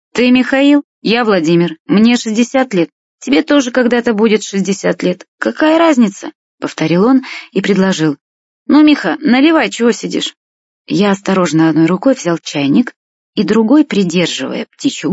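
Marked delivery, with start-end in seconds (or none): 0.1-6.3 insistent. A narrator's reading. Old man insisting, brushing off formality. 8.7-10.3 cheerful urging. A narrator's reading. Old man urging boy to pour.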